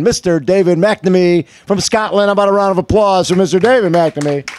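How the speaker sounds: upbeat, projected sponsor read and guest intro; show host announcer. Real, not acted. Host welcoming a race guest to the breakfast show, announcer style. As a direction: introduce the guest to a crowd with punch.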